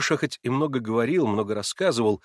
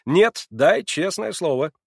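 громче и медленно, с нажимом; требуй слово всерьёз; требовательно; 7 semitones higher, 6 dB louder, slower than usual. A narrator's reading. Маслобоев требует слова. (Маслобоев требует честное слово, с нажимом)

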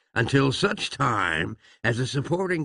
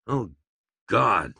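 groan; 2 semitones lower than usual. A narrator's reading. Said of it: "groaned Pa".

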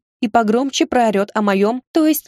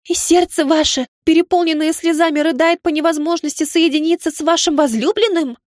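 higher, gushing maid's voice; breathless gushing exclamation; 7 semitones higher than usual. Acted. Maid gushing to her lady about tears, breathless and high. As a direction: gasp it out like a romance-hungry maid. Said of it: "воскликнула с придыханием девица".

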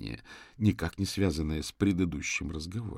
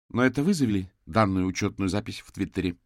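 sharp; 6 dB louder than usual. Acted. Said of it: "резко произнесла Ханна".

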